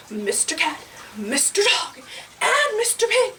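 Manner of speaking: put-on animated read-to-kids narration; children's storytelling. A narrator's reading. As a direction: tell it playfully to small listeners.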